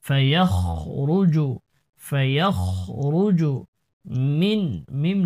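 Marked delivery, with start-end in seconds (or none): 0.1-3.5 ফায়াখরুজু slowly, with a thick kh; heavy kha. Shown as a demonstration. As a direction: dwell on the heavy throat kh in ফায়াখরুজু. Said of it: "খর উচ্চারণটি মোটা করতে হবে".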